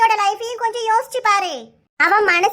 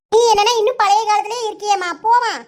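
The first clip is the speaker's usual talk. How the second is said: raised voice; 3 dB louder than usual. Acted. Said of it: "இவ கத்துறது இன்னும் ரெண்டு பேருக்கு கேக்கும்".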